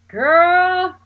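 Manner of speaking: high, loud panicked curse; panicked cry. Retold or imitated. Friend watching drunk lady swerve, panicked yelp. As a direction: yelp it in alarm.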